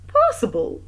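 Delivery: measured, smooth concession. A narrator's reading. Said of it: "said the magistrate smoothly".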